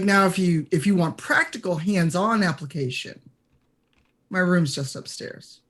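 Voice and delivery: completely serious, understated proposition; deadpan. Acted. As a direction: deliver the flirty offer straight, no joke in it. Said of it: "he's deadpan, one hundred percent serious".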